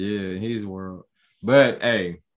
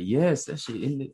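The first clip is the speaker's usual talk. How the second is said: raised pitch on an eager yes; delighted fan spotting something; excited recognition; 6 semitones higher than usual. Retold or imitated. Fan spotting the Thanos chopper, excited. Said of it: "I'm surprised they put it in there".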